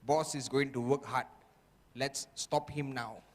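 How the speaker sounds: low, hushed plotting voice; a lightly voiced sly demon whispering plans; quiet conspiring inner voice; scheming inner voice. The inner voice plotting against him.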